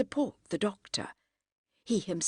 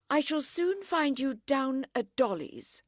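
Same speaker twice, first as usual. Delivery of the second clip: calling out; 8 semitones higher than usual. A narrator's reading. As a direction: call after him as he leaves. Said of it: "she called".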